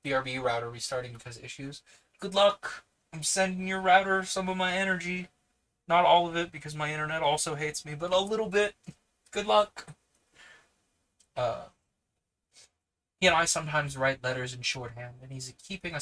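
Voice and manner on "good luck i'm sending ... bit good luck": higher and louder, bright well-wishing; cheery encouragement. Real, not acted. Streamer cheering on a viewer whose router is restarting, bright and loud. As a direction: cheer them on with energy.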